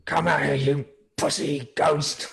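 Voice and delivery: loud high taunt, slow at the end; taunting yell. Acted. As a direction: bait the ghost out. Taunting the ghost.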